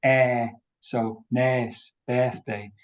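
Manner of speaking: "nes" with the er as a long, extended short E; Liverpool vowel. Shown as a demonstration. Lecturer demonstrating the Liverpool sound, extended E. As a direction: draw out a Scouse "eh" in "nes". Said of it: "the er sound becomes like a short E extended".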